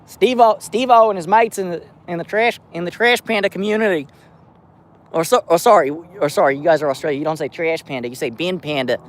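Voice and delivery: put-on Aussie accent, sliding toward South African; mock Australian accent. Streamer teasing Australian viewers about trash pandas, bad Australian accent. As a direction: play an Australian mate, badly. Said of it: "that's not an Australian accent".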